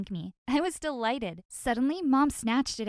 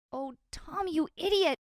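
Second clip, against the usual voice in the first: shocked outburst; 6 semitones higher than usual. Acted. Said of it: "fork had already dropped".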